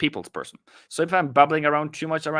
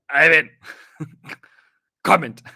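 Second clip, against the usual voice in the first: mock viewer call; 4 semitones higher, 8 dB louder than usual. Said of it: "be like".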